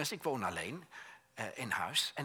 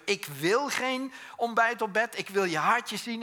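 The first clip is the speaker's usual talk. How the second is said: calling out; 7 semitones higher, 7 dB louder, slower than usual. Retold or imitated. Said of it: "zij zit maar te roepen".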